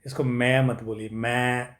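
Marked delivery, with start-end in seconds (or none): 1.1-1.8 मैं said as nasal "main", like a goat's bleat; the mistaken "main" for may, shown to avoid; wrong goat-like sound. Shown as a demonstration. Teacher warns students off मैं, the goat-like "main". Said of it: "बकरी जैसे मैं नहीं बोलना है".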